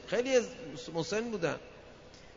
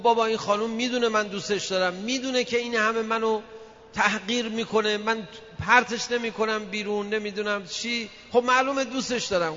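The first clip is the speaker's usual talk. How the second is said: higher, exasperated insistence; protesting husband; 5 semitones higher than usual. Retold or imitated. Husband protesting to the cleric, higher. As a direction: insist like a put-upon husband.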